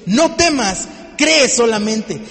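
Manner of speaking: "No temas, cree solamente" shouted slowly and loudly, with "cree" hit hard; slow, shouted "No temas, cree solamente" with no fading; full force shout. Shown as a demonstration. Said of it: "¿Ves el decaimiento en la fuerza?".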